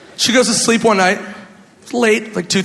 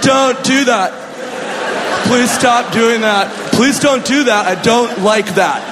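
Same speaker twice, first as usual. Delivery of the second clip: pleading with the cat; 3 semitones higher, slower than usual. Retold or imitated. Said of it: "I'm like".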